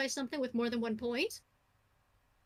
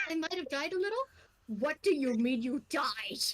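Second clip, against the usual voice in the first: auto-translation. Acted. Fran's translator repeats the samurai's words mechanically. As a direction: read it out like a translation device. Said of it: "you just hear Fran auto-translate of".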